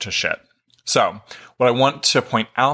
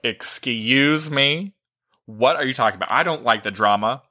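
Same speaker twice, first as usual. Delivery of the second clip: mock indignant; 3 semitones higher than usual. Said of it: "I got so pissed off".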